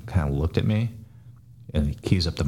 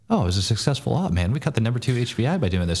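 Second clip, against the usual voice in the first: mock self-congratulation; 6 semitones higher than usual. Mimics glowing after-action report.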